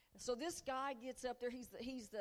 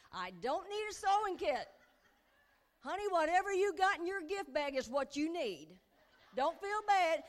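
laughing; 6 semitones higher, 8 dB louder than usual. Real, not acted. Laughing about her gift bag.

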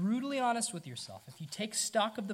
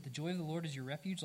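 wrong reading; 5 dB quieter, faster than usual. Shown as a demonstration. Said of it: "what makes God happy is that you have refuge".

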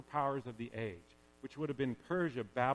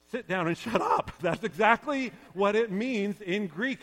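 laughing bluntly; 7 semitones higher, 11 dB louder than usual. Real, not acted. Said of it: "In other words".

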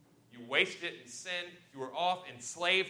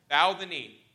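loud call to bow, pitch a bit raised; cried out; 2 semitones higher, 11 dB louder, slower than usual. A narrator's reading. Crowd crying out before Joseph to bow. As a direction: cry it out like a herald before the chariot. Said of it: "And they cried before him".

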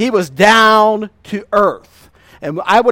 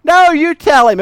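higher, louder laughing protest; laughing refusal; 8 semitones higher, 7 dB louder than usual. Retold or imitated. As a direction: toss it back through laughter. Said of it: "I said".

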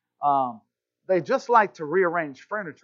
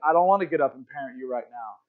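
low, quick, weary brush-off; lazy parent; 5 semitones lower, faster than usual. Retold or imitated. Dad too lazy to get up and parent, low offhand grumble. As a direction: imitate a parent who can't be bothered. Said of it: "gotten lazy and said".

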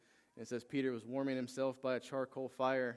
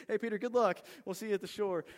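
high, louder mock send-off; calling out; 8 semitones higher, 5 dB louder than usual. Disciples in the boat to swimming Peter, calling out. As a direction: call after him, playfully acted.

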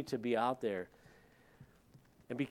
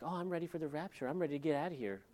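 flippant; 4 semitones higher, 5 dB quieter, faster than usual. Retold or imitated. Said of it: "they'll just be so flippant, like".

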